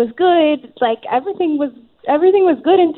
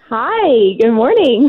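phone line sound; thin telephone voice on a call; over the phone; 3 dB louder, slower than usual. Real, not acted. The speaker on the radio call.

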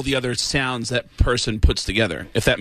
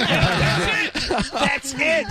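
higher, laughing one-note voice; 11 semitones higher, much slower than usual. Shown as a demonstration. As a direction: hit one high note. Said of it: "you get one note".

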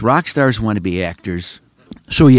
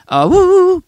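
high falsetto woo-woo rock-and-roll whoops; high, loud imitation of fifties rock whoops; a singer's whoops; 5 dB louder than usual. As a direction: whoop it up high like an early rocker. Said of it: "listening to a singer".

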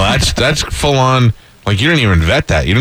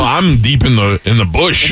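lightly voiced Australian ad; mock Australian commercial; Australian accent; slower than usual. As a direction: play an Outback pitchman in mild Aussie. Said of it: "for an American Outback commercial".

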